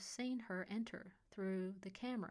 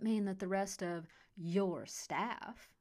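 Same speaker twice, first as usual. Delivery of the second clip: slow, ironic stress on staff; air quotes; 4 dB louder, slower than usual. A narrator's reading. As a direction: drawl staff with scorn. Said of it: "put air quotes around the last two words".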